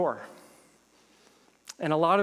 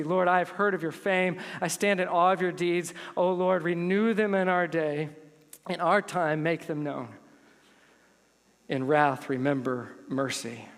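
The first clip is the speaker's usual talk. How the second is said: prayer reading. Acted. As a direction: read it as a humble plea to God. Reads Habakkuk's prayer.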